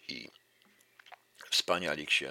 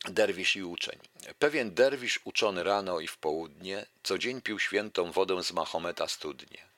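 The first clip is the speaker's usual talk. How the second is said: lively recital of a verse fable; fable reading. Acted. Lecturer reciting a fable to the audience, lively recital. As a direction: read the fable out to the audience with relish.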